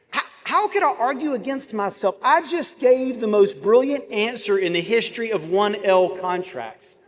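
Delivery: high incredulous whine; indignant disbelief. Retold or imitated. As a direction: sputter like a wronged student. Student's indignant inner voice retold.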